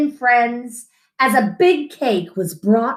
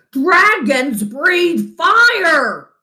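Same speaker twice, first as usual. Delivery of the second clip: slow, higher scolding exclamation; angry insistence; 6 semitones higher, 4 dB louder, much slower than usual. A narrator's reading. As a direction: drive home the rule, each word slow. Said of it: "shouted his father".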